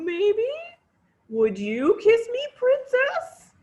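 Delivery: high, loud hopeful ask; pleading frog. Acted.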